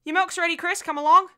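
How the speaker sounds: put-on high, loud call to a child outdoors. Mother calling Chris in for milk, calling out. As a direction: call the little one in from the garden.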